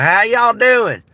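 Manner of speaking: high, loud, drawn-out redneck greeting; imitated redneck. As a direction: stretch it out like a mock redneck. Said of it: "every single culture has rednecks".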